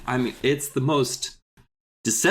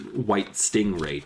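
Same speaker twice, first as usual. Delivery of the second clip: dramatic voice; 4 semitones lower, slower than usual. Pretend. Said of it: "I'm gonna keep saying this in this voice".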